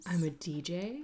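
whispering. Pretend. Answers in a whisper.

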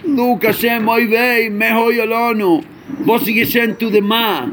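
a mournful call upward to Hashem; Baal Shem Tov lament. Retold or imitated. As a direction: lift the voice in a grieving plea. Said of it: "And yet comes the Baal Shem Tov and says".

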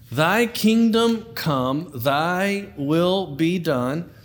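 slow, solemn King James reading; scripture reading. Shown as a demonstration. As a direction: read it like a reverent prayer. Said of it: "Let's go old school".

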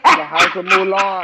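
hyped, loud house shout-out; announcer-style call. Pretend. Host hyping a drag house, loud shout-out.

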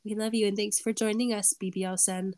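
snotty, stuffy voice; stuffy nose. Real, not acted. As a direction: talk through a blocked nose. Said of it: "Sorry about my snotty, stuffy voice".

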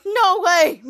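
loud, high, amazed exclamation; high, excited outburst of disbelief. Acted. Character reacts to celebrity gift.

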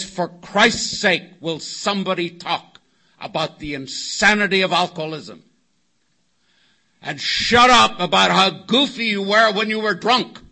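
retold angry demand, loud at the ends; exasperated outburst. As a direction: act out a fed-up man's outburst. Walter smashes chair, demands talk.

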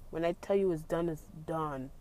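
quiet, final, firm; stern. Real, not acted. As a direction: lay it down as final. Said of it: "you hear that sternness in my voice".

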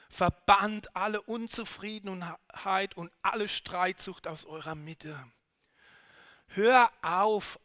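fiery preaching push; booming motivational speech. Real, not acted. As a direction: rouse them to get moving. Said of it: "Ich eifere jetzt".

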